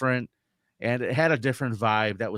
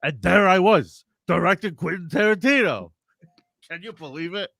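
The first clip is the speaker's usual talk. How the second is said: mock bragging; 7 semitones higher, 4 dB louder than usual. Mocking Shuli's bragging.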